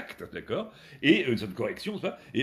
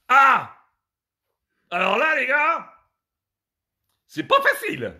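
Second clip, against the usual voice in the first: high, loud game-show build-up; mock-dramatic host announcing a game; excited hype; 10 semitones higher, 8 dB louder, slower than usual. Real, not acted. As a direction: whip the chat into excitement. Hyping up the game.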